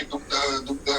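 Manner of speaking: दुग्ध said as "dugdha", g-dh sounded fully; pure Sanskrit pronunciation. Retold or imitated. Storyteller quoting the learned guru, दुग्ध pronounced as pure "dugdha". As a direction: articulate दुग्ध with its consonant cluster. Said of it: "कि वो दुग्ध बोलते थे".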